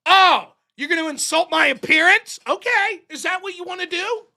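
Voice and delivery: a touch of hammed-up pearl clutching; lightly voiced indignant comeback; mock offended. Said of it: "His response to that is".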